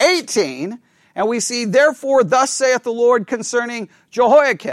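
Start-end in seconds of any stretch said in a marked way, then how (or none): none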